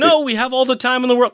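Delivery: high anguished cry, hammed up a little; mock dramatic Bond cry. James crying out over Teresa, mock anguish. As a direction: wail it like a movie hero losing his love. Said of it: "And James is in there saying".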